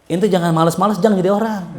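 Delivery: mock-harsh reprimand passed on; a sharp rebuke where a gentle word was meant; harsh scolding. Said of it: "Padahal Aneh bilanginnya lembut".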